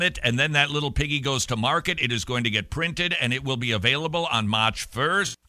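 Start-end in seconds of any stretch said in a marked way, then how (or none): 4.5-5.4 slight Boston accent on "March first". Real, not acted. Host announcing a booklet's release date, slight Boston accent. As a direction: slip lightly into a Boston accent. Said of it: "talking like I'm suddenly from Boston".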